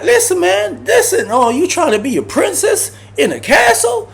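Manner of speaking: high sarcastic squeal at a fussy cellmate; mocking high pitch. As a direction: talk way up high to mock him. Mocking the cellmate's princess demands.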